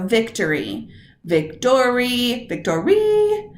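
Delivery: trying each syllable stressed in turn; stress shifting. Shown as a demonstration. Teacher testing the word "victory" by moving the stress. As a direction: sound out victory three ways, stressing a different syllable each time. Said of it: "look at the multisyllabic words first".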